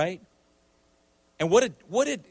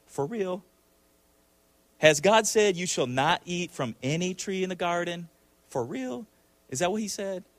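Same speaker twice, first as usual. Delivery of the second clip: lightly voiced serpent, higher questioning inflection; doubting serpent; 3 semitones higher than usual. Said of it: "I think he sounded like this".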